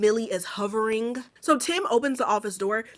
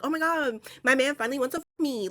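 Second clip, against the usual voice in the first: higher-pitched gush, imitating an excited girlfriend; mock excitement; 4 semitones higher than usual. Imitating a friend thrilled about her man, mock excitement. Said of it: "I get her being excited".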